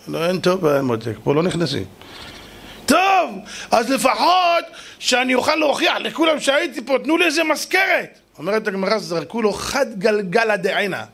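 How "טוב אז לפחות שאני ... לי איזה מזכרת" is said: high, insistent bargaining plea; plaintive demand. Acted. Refused king asks for a souvenir of Eden, pleading.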